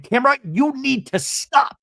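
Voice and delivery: high, slow mock plea in a put-on voice; a hammed-up stop request; imitating Shannon. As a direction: stretch it out like a pleading Shannon. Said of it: "Shannon in another scene going".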